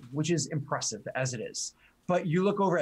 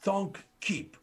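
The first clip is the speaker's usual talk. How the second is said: orc speaking; 5 semitones higher, much slower than usual. Acted. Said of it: "orc voice".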